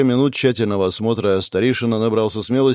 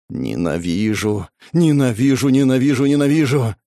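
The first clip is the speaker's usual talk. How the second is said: self-loathing. Acted. Self-hatred building after near death.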